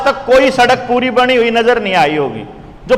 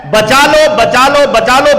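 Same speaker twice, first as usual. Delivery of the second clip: a raised, insistent call to save them; loud plea; 2 semitones higher, 4 dB louder than usual. Pretend. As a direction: urge the crowd loudly, a bit louder each time. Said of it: "जोर जोर से बोलना पड़ेगा".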